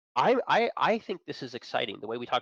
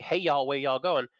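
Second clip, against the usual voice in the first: slower, more hammed-up Southern accent; mock Southern accent; 3 semitones higher, 3 dB louder than usual. Mocking how people hear a Southern accent, slow Southern accent. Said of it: "People think".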